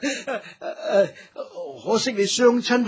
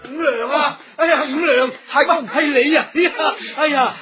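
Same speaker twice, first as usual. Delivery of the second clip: joyful surprise; 4 semitones higher than usual. Acted. Village elder spotting Wu Niang on her return, excited greeting. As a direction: call out in happy disbelief.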